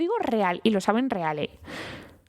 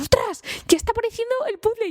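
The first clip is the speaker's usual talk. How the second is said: excited discovery; 13 semitones higher than usual. Retold or imitated. Puzzle piece clicks into place.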